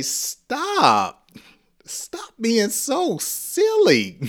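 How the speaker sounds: high, drawn-out playful plea breaking into laughter; giggly mock protest. Teacher acts out telling a silly friend to stop, giggly protest. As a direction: beg them to stop, amused.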